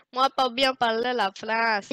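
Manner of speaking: mock broken French. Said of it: "je ne sais pas parler français".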